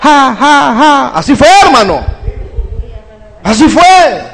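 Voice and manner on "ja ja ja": higher mock laugh, three separate beats; staged "ha, ha, ha"; imitated crowd jeer. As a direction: act out a mob's jeering laugh. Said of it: "¿Y qué dijo el pueblo?".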